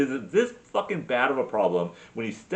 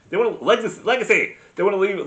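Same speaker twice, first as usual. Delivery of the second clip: eureka shout; 7 semitones higher, 6 dB louder, faster than usual. Real, not acted. Remembering the word, exclaims.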